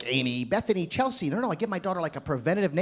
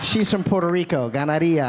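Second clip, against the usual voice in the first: lightly put-on Puerto Rican accent, lower; 4 semitones lower, 3 dB louder than usual. Comic introduces his imagined daughter, Puerto Rican accent. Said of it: "that Puerto Rican".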